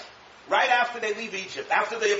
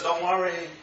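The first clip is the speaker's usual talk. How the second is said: a lightly voiced calm God; calm reassurance; 2 semitones lower, slower than usual. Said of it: "Hashem says".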